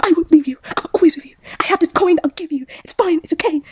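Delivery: high, half-whispered comfort; mock tender reassurance. Husband reassuring wife.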